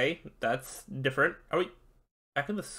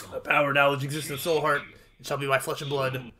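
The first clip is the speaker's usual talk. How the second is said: dark master. Acted. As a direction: intone it like an ancient power claiming souls. Master speaks.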